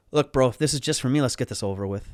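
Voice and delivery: lightly voiced street punk; a hint of street punk in your own voice; East Van street punk. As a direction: put on a little tough-punk front. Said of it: "say it like a little East, East Van Street punk".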